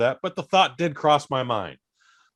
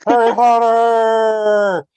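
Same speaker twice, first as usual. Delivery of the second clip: high, drawn-out ecstatic yell; stretched joyful whoop; excited shout; 11 semitones higher, 10 dB louder, much slower than usual. Retold or imitated. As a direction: scream it like a thrilled kid at the movies. Excited kid yelling at screen.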